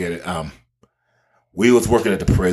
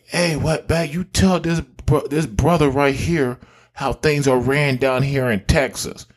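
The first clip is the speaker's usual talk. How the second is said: a hint of a bossy captain, higher and slow; captain addressing officer; 5 semitones higher, slower than usual. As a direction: mimic a captain calling on a subordinate. Captain addressing fellow officer, retold.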